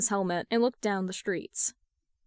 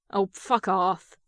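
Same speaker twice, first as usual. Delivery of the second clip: retort; 4 dB louder, slower than usual. Acted. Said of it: "Jason retorted".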